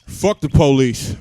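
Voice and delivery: mock sincere. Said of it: "from the bottom of my heart with all sincerity".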